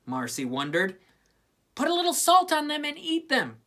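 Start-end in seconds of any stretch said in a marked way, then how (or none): 1.8-3.6 higher, louder brusque voice; gruff tomboy. A narrator's reading. Peppermint Patty answering Marcy, brusque and loud. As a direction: toss off a blunt answer. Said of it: "Peppermint Patty replied".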